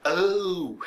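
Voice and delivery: put-on gasp of discovery; mock shocked "oh". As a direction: act out a viewer's stunned realization. Imita espectador surpreso com revelação.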